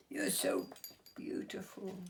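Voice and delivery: put-on high, wondering child's voice; awed little girl. Olivia marvels at the fairy, in a high awed voice. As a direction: breathe it out high in awe.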